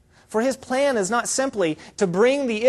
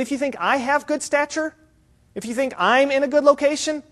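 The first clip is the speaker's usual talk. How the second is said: pitched up high, held suspended; building a contrast; 6 semitones higher than usual. Acted. John tells questioners of a greater one, building up. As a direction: lift each condition up, leaving it hanging.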